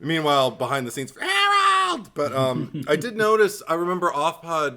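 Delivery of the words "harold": high shrieked yell; sudden loud, drawn-out screech; calling out a name. Acted. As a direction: holler it at the top of your pitch. Imitates character calling out Harold.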